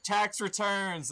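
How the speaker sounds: high, slow, drawn-out silly call; mock cat-owner. Owner meowing at the cat, high and slow. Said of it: "you're like".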